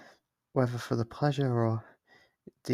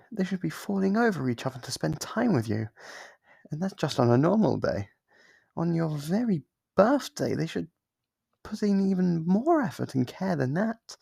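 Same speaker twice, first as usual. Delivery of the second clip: pitched-up indignation; indignant on their behalf; 5 semitones higher than usual. Acted. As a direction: protest how unfair it is. Visitor spends birthday alone.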